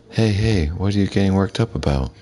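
teasing high voice. Acted. Reply calming the overjoyed Vincent.

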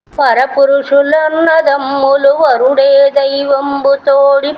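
slow, sing-song chanting of a classical verse; slow chanted Telugu poem; poem recitation. Acted. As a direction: intone the padyam slowly and evenly, like a recital.

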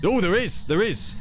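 thrilled, pitch jumps way up; excited high yelp. Real, not acted. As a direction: burst out in delighted surprise. Finds the Ouija board.

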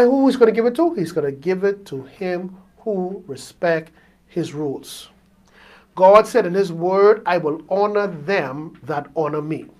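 soft, low pulpit delivery; solemn preaching. Real, not acted. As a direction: lay down the rule quietly and deliberately. Preaches God's rules.

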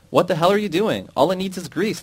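high, loud furious yell at the worker; angry shout. Acted. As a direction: yell at him in disbelief. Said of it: "the foreman shouted".

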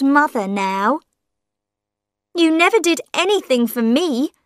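put-on old mother begging her son to take her along; old woman's voice. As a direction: plead for money with a guilt trip. Mother asks for help.

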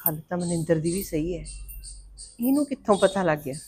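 hushed whisper to herself; a whisper as she thinks the matter over alone; whispered aside. Acted. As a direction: breathe it out as a private thought. Mother muses to herself alone.

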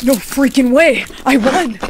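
loud, thrilled and slow; excited. Acted. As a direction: shout out the win in disbelief. Wins the lottery.

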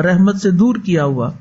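ordinary delivery

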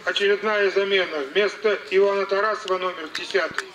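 booming announcement over the stadium speakers; formal PA announcer voice; echoing stadium announcer. Real, not acted.

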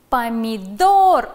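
slow, loud dictation of "Помидор", stressing the third syllable, ДОР. Shown as a demonstration. Teacher dictating a word to the class, slow and loud stress. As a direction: read "Помидор" slowly with a loud, stretched ДОР. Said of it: "Ударение падает на третий слог".

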